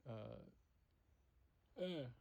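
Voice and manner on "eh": higher short "eh" grunt; brief inarticulate creature noise. Retold or imitated. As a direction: grunt a wordless answer. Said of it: "He just went".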